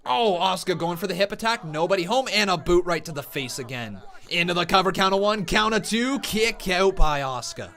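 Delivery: brisk wrestling commentary; urgent ringside call; live play-by-play. Real, not acted. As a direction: call the action as it happens.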